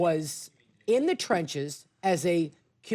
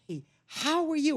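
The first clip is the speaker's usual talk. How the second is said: mouthing a greeting; 9 semitones higher than usual. Retold or imitated. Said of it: "then he went".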